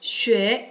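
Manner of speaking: 쉐 said as "xüe", with a ü glide; 쉐 pronounced "shweh" for the learners; model pinyin reading. Shown as a demonstration. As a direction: give 쉐 as a separate model syllable. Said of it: "이런 식으로 읽어요".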